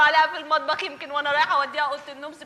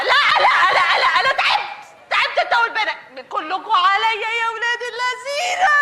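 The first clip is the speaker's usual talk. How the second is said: exasperated shouting; 6 semitones higher than usual. Acted. Wife shouting at husband she is worn out, laughing. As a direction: yell that you're done, half laughing. Wife's comic tantrum at husband.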